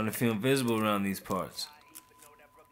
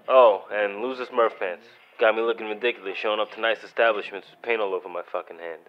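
angry rant; 6 dB louder than usual. Acted. Angry lecture to roommate.

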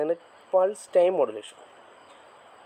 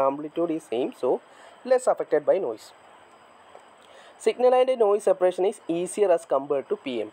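slow dictation; 2 semitones higher, much slower than usual. Shown as a demonstration. Teacher dictating a definition to the class, slow and measured. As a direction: dictate the definition word by word, very slowly.

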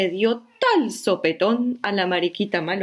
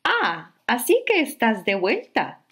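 higher, kindly little bug voice; friendly ladybug; 5 semitones higher than usual. Acted. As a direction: welcome her like a kind ladybug. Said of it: "le dijo la mariquita simpática".

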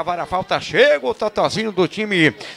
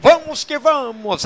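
long goal yell; 6 semitones higher, 4 dB louder, slower than usual. Real, not acted. Radio narrator rallying cry.

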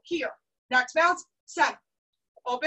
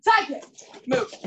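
called cue; 3 dB louder than usual. Real, not acted. Instructor calls the kick cue.

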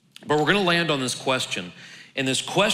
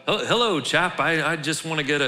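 higher-pitched, hammed-up British gent; amateur British accent, pitched up for a joke; 4 semitones higher than usual. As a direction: put on your best fake British accent. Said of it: "that's my best British accent".

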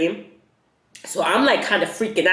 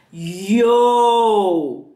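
exasperated holler; 2 semitones higher, 4 dB louder than usual. Real, not acted. Exclaims over being stuck with covid.

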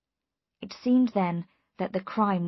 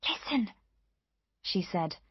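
hushed alert; 3 semitones higher than usual. A narrator's reading. Warns she hears something approaching.

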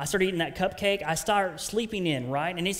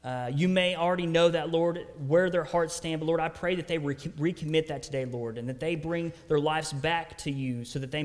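earnest prayer, slowing on the weightier phrases; spoken prayer. Real, not acted. Preacher praying to the Lord for his congregation, spoken prayer.

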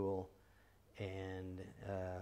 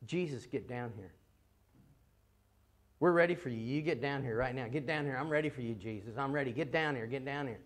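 insistent, higher-pitched mock demands; imitated shouting; 4 semitones higher, 3 dB louder than usual. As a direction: imitate a preacher ordering Jesus down. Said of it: "he starts shouting out".

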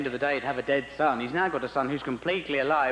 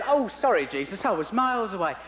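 higher, offhand apology; casual, higher-voiced God brushing it off; distracted God; 5 semitones higher than usual. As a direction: sound like you just weren't listening.

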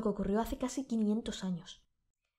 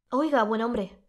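louder hail across the street; young man hailing the fisherman across the street, calling out; 6 dB louder, slower than usual. Acted. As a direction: call out to get his attention.

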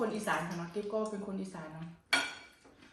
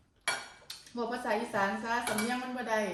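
slow quoted critic; much slower than usual. Retold or imitated. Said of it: "มีหลายคนบอกว่า".

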